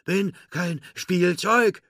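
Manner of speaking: high, loud, slow squawky little character voice; slow, emphatic high-pitched announcement; defiant proclamation. A narrator's reading. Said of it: "verkündete Forky".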